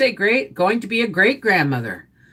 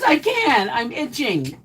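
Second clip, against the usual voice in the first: voicing the dog; 8 semitones higher, slower than usual.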